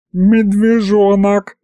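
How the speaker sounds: high, slow wailing mockery; mocking howl. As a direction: howl it with laughter. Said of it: "провыл Аристофан". (провыл сквозь смех)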